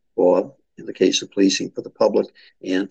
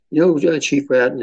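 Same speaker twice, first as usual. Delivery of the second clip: lightly imitated Southern accent, pitched higher; 6 semitones higher, 3 dB louder than usual. Community leader to departing police chief, light Southern accent. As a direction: quote her with a hint of Southern accent. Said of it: "she had this delightful Southern accent".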